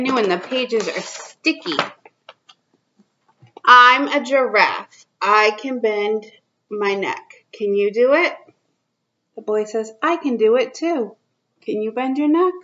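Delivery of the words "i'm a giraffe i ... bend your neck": put-on reading to children. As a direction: read it out to little kids, drawing each line out. Reads picture book to kids.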